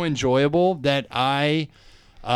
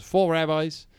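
halting, softer Australian storyteller; Australian accent; 3 dB quieter than usual. Retold or imitated. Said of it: "the Australian guy was talking".

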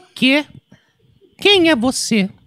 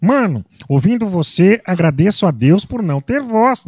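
João Valho impression; 3 semitones lower, 3 dB louder, slower than usual. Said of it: "Tem o João Valho".

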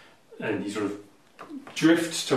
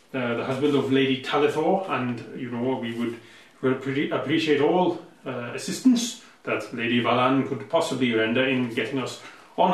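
put-on lightly Welsh-accented noble; a hint of Welsh, formal and halting; 4 dB louder than usual. Eladrin husband asking for Lady Valan's assistance, in a light Welsh accent. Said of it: "he's supposed to be Welsh".

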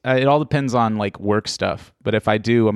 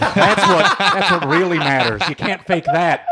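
mock New York pizza snob; 4 semitones higher than usual.

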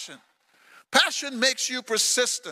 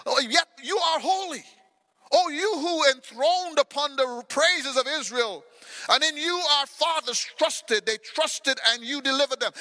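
raised, higher praise to a holy God; praising cry; 3 semitones higher than usual. Acted. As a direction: lift the words up high. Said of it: "He says".

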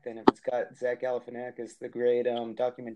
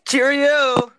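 loud, high mock British Cheerio; hammed-up posh English exclamation; British accent; 12 semitones higher, 13 dB louder than usual. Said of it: "how your English accent is".

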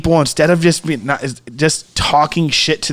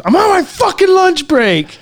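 quoted movie line. Retold or imitated. Quoting the movie.

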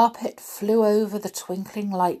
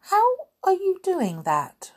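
much higher wondering question; amazed; 13 semitones higher than usual. Acted. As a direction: gasp it out in wonder. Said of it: "she asked".

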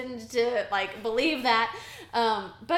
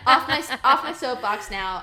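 laughing; 3 semitones higher, 10 dB louder than usual. Real, not acted. Laughing after finishing her rant.

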